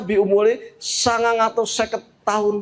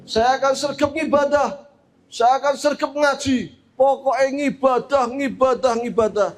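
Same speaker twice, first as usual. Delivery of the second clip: higher, emphatic vowing; lightly voiced woman piling up eager promises; earnest mother; 5 semitones higher than usual. Mother vows to Prophet Nuh constant worship, emphatic. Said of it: "Dijawab oleh ibu ini".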